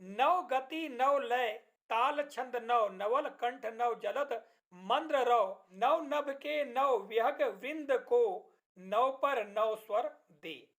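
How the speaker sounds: very slow, deliberate verse reading; poem recitation. Shown as a demonstration. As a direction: read out each line slowly like a recital. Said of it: "इस कविता की चार पंक्तियां हैं". (धीमा, ठहरा हुआ कविता पाठ)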